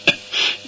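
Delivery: a dry cough breaking the reading; choking cough. Acted. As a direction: cough as the voice catches. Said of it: "صدایش گرفت".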